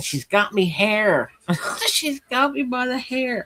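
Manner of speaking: mock long, high, drawn-out screeching cry. Retelling a childhood fight, quoting the mother: imitating mom screaming. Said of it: "My mom screaming".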